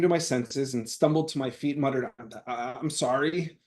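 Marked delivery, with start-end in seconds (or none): 2.2-3.6 holding back tears. Retold or imitated. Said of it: "barely holding back tears".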